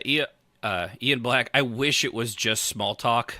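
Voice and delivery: ordinary talk, nothing marked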